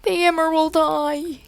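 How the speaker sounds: a hammed-up little sob; lightly voiced sobbing cousin; mock sob. A narrator's reading. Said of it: "he sobbed".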